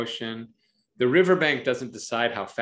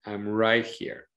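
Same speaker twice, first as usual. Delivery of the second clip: reassuring; 2 semitones lower, slower than usual. Shown as a demonstration. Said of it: "what about if we say".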